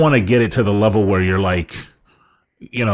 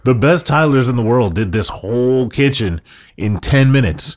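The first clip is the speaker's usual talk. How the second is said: mock pep talk; 3 semitones higher than usual. Mock pep talk as the hacker boss.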